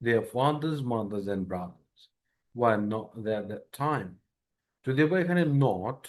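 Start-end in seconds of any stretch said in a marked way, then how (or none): 0.1-4.1 slow, careful full sentence; slow reading demo. Shown as a demonstration. Teacher reading the full sentence slowly. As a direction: read the whole line slowly. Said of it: "তো কি দাঁড়াচ্ছে".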